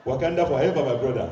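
loud Wakandan salute; proud rallying cry. Acted. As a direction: proclaim it like a battle cry. Playing a proud Wakandan citizen.

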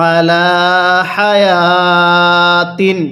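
slow, drawn-out Quranic recitation. Shown as a demonstration. Teacher recites slowly for students to repeat. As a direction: recite each word slowly for the learner. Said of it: "কিভাবে পড়ব?".

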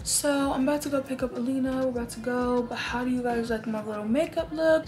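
talking while chewing gum; words round a piece of gum. Real, not acted. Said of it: "Sorry, I have gum".

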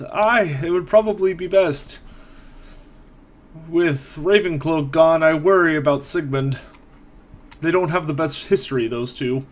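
put-on old caretaker confiding a worry; a hint of a worried old man; worried elderly man.

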